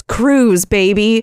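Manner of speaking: lightly voiced cocky kid; kid's swagger. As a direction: land it like a smug little dealmaker. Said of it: "And he goes".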